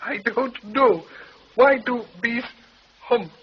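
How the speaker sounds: high, slow stage Irish voice; drawn-out comic Irish feed; stage Irish accent. Acted. Comic Irish act feed line.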